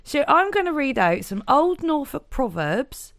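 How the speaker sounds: put-on broad Norfolk accent; chatty Norfolk accent. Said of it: "You're just warming up your Norfolk accent".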